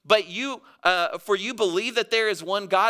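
high-pitched, pointed challenge; lightly sarcastic scripture quote; a little sarcastic. Acted. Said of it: "he gets a little sarcastic".

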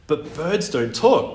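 put-on slow childlike protest. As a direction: object slowly as a boy. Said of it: "protested Oliver".

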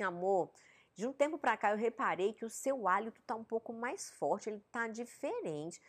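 softly telling a loved one about bad breath; gentle, tender. Shown as a demonstration. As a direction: break it gently to someone you love. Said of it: "falei a mesma coisa, só que de duas formas".

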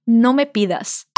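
No me pidas spoken slowly, word by word; slow model phrase. Shown as a demonstration. Teacher dictates Spanish phrase slowly for learners. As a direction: say No me pidas slowly for students to copy. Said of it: "Repete comigo".

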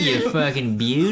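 bro shout. Pretend. Bro greeting his buddy.

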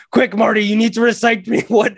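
hurried mock command through a laugh; retelling a frantic cartoon demand; Rick. Acting out Rick's urgent order.

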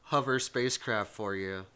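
loud cartoon salesman, laughing through it; badly faked cartoon pitch, loud at the start; bad Fred Flintstone. Selling a spacecraft to a customer, bad Flintstone voice. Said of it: "I'm doing a really bad Fred Flintstone".

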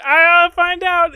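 slow, high, loud taunt; mock threat. Meme attacker answering the supposed cake, slow high mock threat. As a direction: stretch it out loudly in a high imitation voice. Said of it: "And then he's like".

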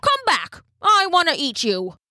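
put-on high, excited old man calling. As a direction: call after him, hungry. Old man chasing the cookie.

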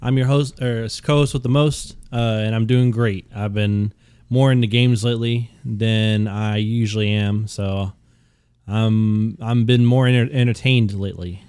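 monotone robot voice. Acted. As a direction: speak like a flat robot. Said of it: "Why are you talking like a robot?".

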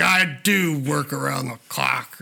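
slow, light Harrison Ford drawl; second try at the Harrison Ford line, lightly voiced; Harrison Ford impression. Friend retries Harrison Ford's movie line, slow imitation. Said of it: "He's like".

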